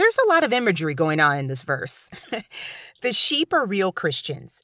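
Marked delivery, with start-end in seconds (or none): 3.0-4.6 the word real pressed a little harder. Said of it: "emphasis on real".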